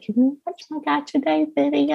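put-on high, small child's voice; imitating little daughter. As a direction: ask like a little girl begging. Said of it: "She's always like".

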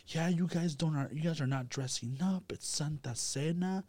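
half-playful take on a tearful mother; mimicking mom.

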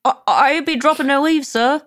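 put-on high, loud old-world servant voice; Lord of the Rings voice. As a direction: play it like a hobbit swearing loyalty. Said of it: "Lord of the Rings quote?".

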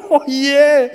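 high, laughing mock-dismay; a playful grumble of defeat; laughing groan. Wife caught by the lost game, high laughing groan.

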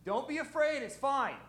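high, soft hammed-up reassurance; playful high soft calming voice; soothing Jesus voice. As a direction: coo it gently to frightened friends. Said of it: "I'm gonna help Sean here".

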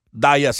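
"Díaz" as DYE-as; anglicized pronunciation. Shown as a demonstration. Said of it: "él te dice que es Díaz".

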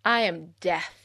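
slow ominous death-god threat; booming demon lord. Pretend. Menacing self-introduction as death.

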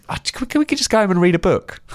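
hint of a timid girl begging to leave; imitating his date. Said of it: "Well, she said".

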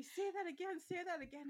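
high, eager mimicry of teasers; teasing people. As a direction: imitate people begging to hear it. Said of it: "I have people come up to me".

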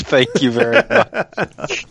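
slow, venomous thank you; sarcastic thanks. Acted. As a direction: thank her with sweet poison. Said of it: "That is dripping with venom".

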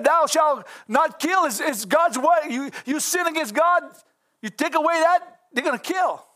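high, loud shouted commandment; slow, shouted warning from on high; preached shout. Acted.

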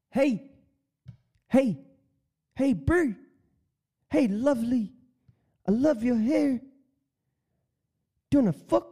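high, hammed-up Kiwi pickup line; a cheesy Kiwi bloke hitting on someone; lightly faked New Zealand accent; bad New Zealand accent. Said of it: "I'm terrible with accents".

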